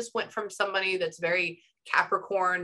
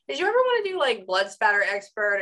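eager question; 4 semitones higher, 3 dB louder than usual. Retold or imitated. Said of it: "I said".

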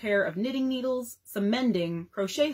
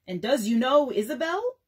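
minstrel show voice; 3 semitones higher, 4 dB louder than usual. Acted. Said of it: "played the parts of both the Messrs. Jones and Bones".

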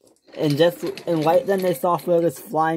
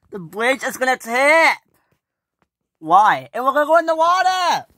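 high, fast alarmed yelling; panicked cry; 8 semitones higher, 5 dB louder than usual. Acted. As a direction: panic as the bridge tips. Panic as bridge tips.

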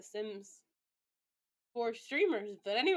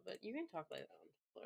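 softer repeat; 11 dB quieter than usual. Shown as a demonstration.

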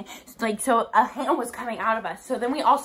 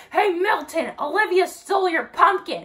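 raised, high calling-out voice; mock holler, pitched up; imitated yell; 7 semitones higher, 4 dB louder than usual. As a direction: call out to tattle across a yard. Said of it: "then he yells out".

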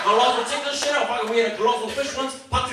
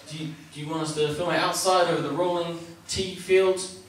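laid-back Kiwi; 3 semitones lower, faster than usual. Retold or imitated. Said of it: "That guy is a classic Kiwi".

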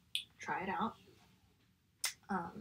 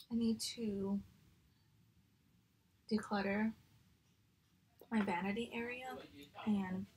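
chewing between words; eating while talking; mouth full. Real, not acted. Seen 1: Bite taken at -1.0; closed, chewing mouth between words through 6.9.

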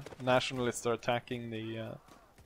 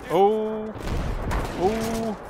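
surprised; 10 semitones higher, 5 dB louder than usual. Real, not acted. Grenade surprise.

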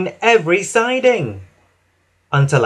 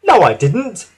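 happy, higher little engine voice; Whiff; 5 semitones higher, 4 dB louder than usual. A narrator's reading. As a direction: whistle it out happily. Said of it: "whistled Whiff happily".

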